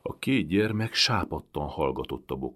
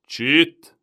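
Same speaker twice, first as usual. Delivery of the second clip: loud, high snapped shush; sharp hush; 11 semitones higher, 14 dB louder than usual. A narrator's reading. Turk hushing the shouting boy harshly. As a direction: silence the boy at once. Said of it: "szólt rá a török".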